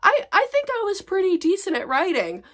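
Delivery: high, proud put-on voice; smug younger self. Imitating her younger self, smug and proud. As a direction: play your naive past self. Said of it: "being like".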